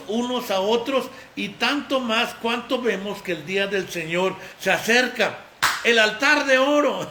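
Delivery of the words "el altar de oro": booming preacher call; sudden loud shout that startles the dog; loud proclamation. Real, not acted. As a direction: proclaim it loudly.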